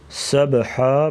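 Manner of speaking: سبحا with the b bounced before the h; qalqala. Shown as a demonstration. Teacher shows qalqala, bouncing the b in سبحا. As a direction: release the b of سبحا with a small echo. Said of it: "با ساکن ہے تو یہاں پر قلقلہ".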